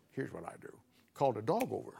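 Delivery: soft, low conspiratorial tip; lightly voiced old man scheming; hushed grandpa. Grandpa's secret plan, hushed.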